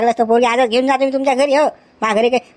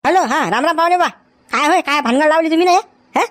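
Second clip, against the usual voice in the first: higher phone voice, hearty hello; phone greeting; 5 semitones higher than usual. Acted. Uncle rings the in-law to complain, higher phone voice. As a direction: greet him brightly down the line.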